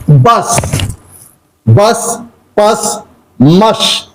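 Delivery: "Bus, pus, mush" with the short a-sound "uh" for U; teacher demonstrating "bus", "pus", "mush" with U as a short a. Shown as a demonstration. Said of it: "pronounced as A".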